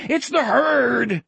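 high, drawn-out scream; screaming back. A narrator's reading. Wolf answering Jack about his animals, screaming back. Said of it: "Wolf screamed back".

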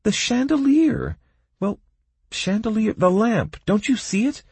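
put-on high, indignant girl's exclamation. A narrator's reading. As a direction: huff it out, offended. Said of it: "Kaelin said in indignation".

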